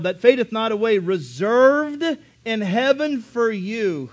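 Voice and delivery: scripture reading. Acted. Preacher reading the verse to the church, building. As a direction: read the verse with building force.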